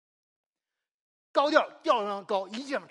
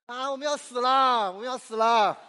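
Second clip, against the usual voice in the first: a bit louder and slower frightened cry; mock panic; 3 semitones higher, 5 dB louder than usual. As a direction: ham up the disciples' fear in the storm. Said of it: "他们：".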